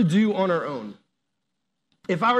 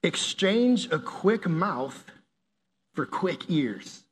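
slow dictation; 3 dB quieter, much slower than usual. Shown as a demonstration. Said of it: "write down is".

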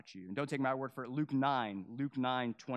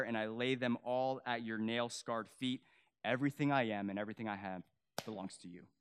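hushed surrender prayer. Real, not acted. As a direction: pray it gently. Leads a soft prayer.

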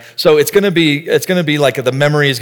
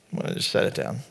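whispered and soft; 10 dB quieter, faster than usual. Real, not acted. Pastor wishing to set the phone down, whispered. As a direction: say it under your breath as a wish.

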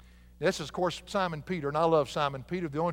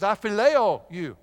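louder, slow and easy, like talking to a buddy; casual friendly tone; 4 semitones higher, 8 dB louder, slower than usual. Retold or imitated. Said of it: "He changes the whole tone".

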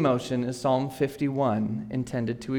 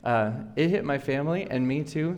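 hoarse, under the weather; sick voice. Real, not acted. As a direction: talk through a bad cold. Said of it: "if you hear me sound like I'm dying up here".

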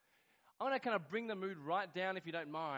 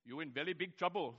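put-on Indian accent; 2 semitones lower than usual. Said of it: "Indian man".

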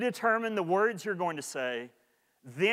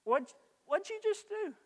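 sharp, much higher, exasperated; irritated snap; 14 semitones higher, 4 dB quieter than usual. Shown as a demonstration. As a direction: snap at him in annoyance. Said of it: "one response to the first one".

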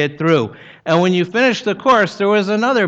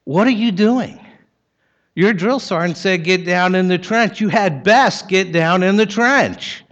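menacing voice; 3 semitones higher than usual. Retold or imitated. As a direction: imitate a menacing order called down the trench. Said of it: "in my most menacing voice".

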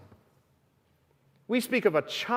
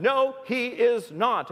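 put-on stubborn little girl; 5 semitones higher, slower than usual. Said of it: "Kristen stomped her foot and she said".

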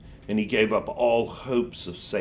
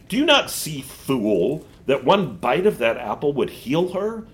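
higher, scolding witch voice; scornful witch; 5 semitones higher, 4 dB louder than usual. Acted. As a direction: call him a fool with scorn.

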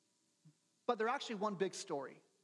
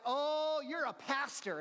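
surprised friend; 5 semitones higher, slower than usual. Retold or imitated. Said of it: "she's like".

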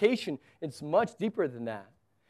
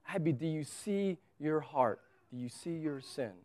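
retold soft appeal, dropping away; gentle fatherly questioning; 7 dB quieter than usual. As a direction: ease off and ask the child quietly. Father gently questioning crying daughter.

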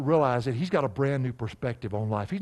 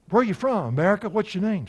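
much higher and louder, asking brightly; curious questioner; 8 semitones higher, 6 dB louder than usual. Retold or imitated. Preacher voicing someone asking about origins, high and loud. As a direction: quiz someone on where they come from. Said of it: "would be like".

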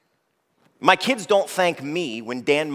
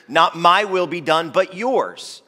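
higher, louder, pleading prayer; Jesus praying in agony, earnestly; 5 semitones higher, 5 dB louder, slower than usual. Acted. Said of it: "he prayed more earnestly".

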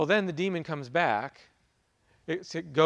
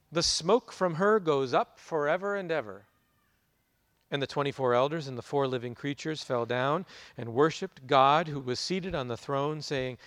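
measured, grave Bible reading; scripture reading. Acted. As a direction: read it out like a proclamation from the pulpit. Reads scripture before the sermon.

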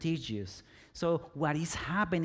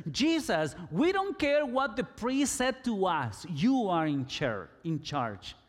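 lepers calling out to Jesus, mildly raised; mild retold scream. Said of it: "They were screaming to Jesus".

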